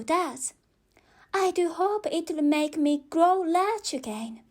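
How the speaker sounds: put-on eager little girl voice; Alice's voice. Alice talks to herself before drinking, lightly girlish.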